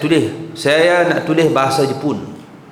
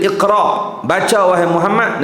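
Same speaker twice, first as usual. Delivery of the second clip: Jibril commanding; 4 semitones higher than usual. Acted. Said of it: "Lagi sekali kata Jibril".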